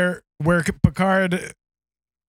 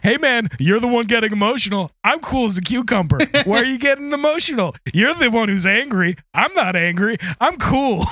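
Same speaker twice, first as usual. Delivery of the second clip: smug mock calm; 2 semitones higher, faster than usual. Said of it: "the other person is saying".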